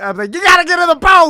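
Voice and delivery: acted scream. Telling how they grabbed and shook a crying swimmer, retelling a scream. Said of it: "And like I screamed".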